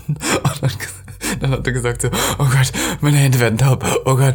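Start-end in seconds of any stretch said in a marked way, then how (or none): 2.4-4.4 panische Angst leicht nachgespielt; panisch. Retold or imitated. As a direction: imitate a friend's mild panic. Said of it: "er war so richtig panisch". (panisch nachgeahmt)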